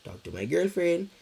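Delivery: put-on high pleading to his mom about his girlfriend; mock pleading. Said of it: "try to talk to her and be like".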